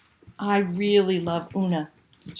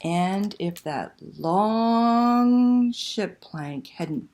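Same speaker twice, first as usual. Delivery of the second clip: put-on lively read-aloud to children; storyteller voice for kids; story narration. A narrator's reading. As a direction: tell it like a bedtime picture book, full of suspense. Reads picture book aloud.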